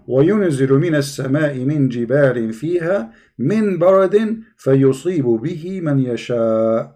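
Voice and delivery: measured Quranic reading aloud; Arabic verse recitation. Real, not acted. Host reading the verse for a struggling caller, reciting.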